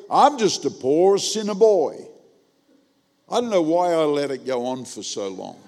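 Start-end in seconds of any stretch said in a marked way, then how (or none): 0.1-2.1 slow mimicked reply, a bit louder; slow, mocking imitation; imitating churchgoer. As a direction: mimic a grown man's drawn-out stock reply. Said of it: "this is what he said".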